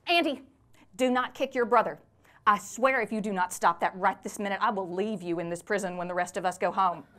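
loud, sharp scolding of a misbehaving son; yelling at the kids. Acted. Mother in a prison waiting room yells at her son, loud scolding. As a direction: bark the warning at Andy to stop kicking.

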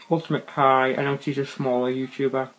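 talking with mouth full. Real, not acted. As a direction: talk through a mouthful of food. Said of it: "talking with my mouth full".

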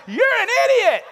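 put-on high, loud child's yell out the window; shouting kid. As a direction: yell it out the window like a bold little boy. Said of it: "he's shouting this".

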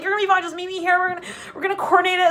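reassuring Leo. Retold or imitated. Voicing Leo reassuring friend.

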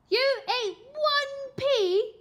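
high, loud, slow disbelief; incredulous mum. A narrator's reading. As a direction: stretch out the disbelief. Mother incredulous.

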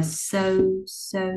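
"sơ" with a light hissed s, like Vietnamese; light S sound. Shown as a demonstration. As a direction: say "sơ" with a small, plain s. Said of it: "này là âm sờ nhẹ". (sơ với âm sờ nhẹ)

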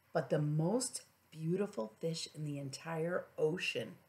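put-on gentle read-aloud to a child; soft bedtime storytelling; storybook narration.

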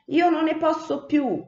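high-pitched whimpering complaint; lamenting. A narrator's reading. Another sparrow complaining of hunger, high whine. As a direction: moan that you can't bear it. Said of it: "si lamentava un altro".

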